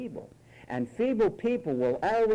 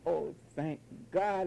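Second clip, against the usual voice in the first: slow, mock-tearful thanks; put-on weepy testimony; mock crying preacher; slower than usual. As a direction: imitate a preacher about to cry. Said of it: "before you know it, they're crying".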